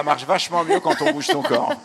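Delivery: amused, laughing as he tells it; tickled by his own story, laughing while speaking. Real, not acted. Amused anecdote about dance class.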